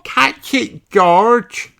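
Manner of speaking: Peppa shouting. A narrator's reading. Peppa shouts for George to catch his hat, high excited call. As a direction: urge him to chase it. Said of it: "shouts Peppa".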